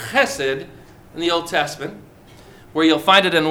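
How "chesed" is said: chesed again with a laugh, lower and throaty; laughing repeat. Shown as a demonstration. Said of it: "You have to say it like that, like a Hebrew".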